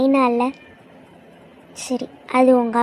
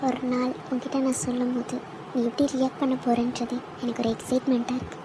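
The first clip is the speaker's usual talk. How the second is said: quiet tender musing; 2 semitones lower, 6 dB quieter than usual. Acted. Imagined confession to Karthik, alone.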